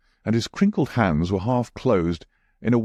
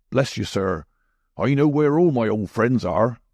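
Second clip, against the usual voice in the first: sinister; 3 semitones higher than usual. A narrator's reading. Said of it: "with a sinister smile".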